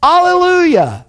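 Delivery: slow, high, soaring amen and alleluia; drawn-out cry of worship; worshipful acclaim. A narrator's reading. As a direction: stretch each word out in exultant praise. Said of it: "fell down and worshiped".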